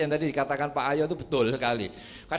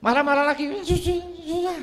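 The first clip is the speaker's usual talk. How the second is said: angry then relieved; 12 semitones higher than usual. Acted. Acted angry man hammering again.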